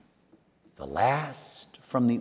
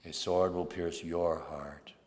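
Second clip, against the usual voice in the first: softer, slow, solemn recollection; hushed prophecy; 3 semitones lower, 6 dB quieter, slower than usual. Retold or imitated. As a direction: speak it softly, as a fulfilled omen. Prophecy recalled quietly at the end.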